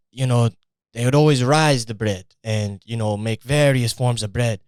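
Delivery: a light put-on Italian accent telling family lore. Fake Italian explaining his father invented pizza, light Italian accent. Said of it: "here's another Italian fake history story".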